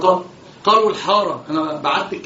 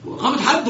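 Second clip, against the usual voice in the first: «حد» said higher with a rising lift; stress on حد; 5 semitones higher than usual. Shown as a demonstration. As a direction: lift «إقامة حد» up on «حد». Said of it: "شوف، شوف، شوف". (نبرة على «حد» بصعود)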